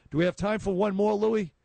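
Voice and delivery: calling out to producer. Real, not acted. Host asks producer Louis for time, calling out brightly.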